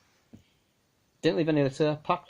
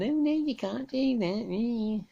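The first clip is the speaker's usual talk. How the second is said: mock busybody; 11 semitones higher, much slower than usual. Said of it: "somebody saying".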